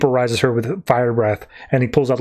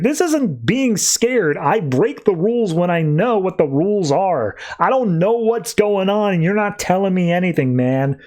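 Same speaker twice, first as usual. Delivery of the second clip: indignant protest; 5 semitones higher than usual. Retold or imitated. Constantine insists he's not scared.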